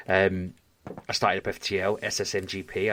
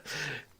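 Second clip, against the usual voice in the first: small, soft checking cough; imitated cough; 12 dB quieter than usual. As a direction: mimic a quiet little cough. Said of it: "I heard one of them just cough to check".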